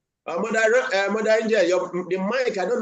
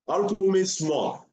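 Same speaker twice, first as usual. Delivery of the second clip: slow teaching; slower than usual. Shown as a demonstration. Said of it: "slow teaching repetition".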